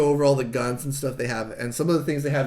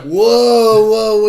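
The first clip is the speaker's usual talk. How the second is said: loud, higher-pitched acted objection; alarmed Burke; 6 semitones higher, 11 dB louder, much slower than usual. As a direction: halt them with a big drawn-out protest. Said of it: "Burke is like".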